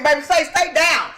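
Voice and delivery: slogan delivery. Shown as a demonstration. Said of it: "need to shoot a commercial".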